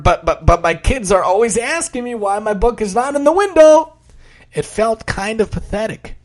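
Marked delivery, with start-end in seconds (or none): 0.0-3.9 high, stuttering plea; stammering. Acted. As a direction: stumble over the first words. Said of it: "I stammered".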